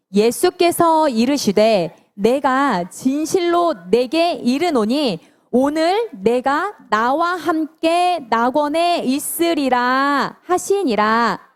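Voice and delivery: very slow, measured recitation; drawn-out scripture reading; unison scripture reading. Real, not acted. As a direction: lead a group through the verse, syllables stretched. Leads unison Bible verse reading.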